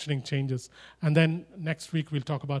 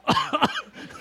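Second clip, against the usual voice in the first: imitated giraffe cough; 12 semitones higher than usual. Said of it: "behind these short shrubs and going".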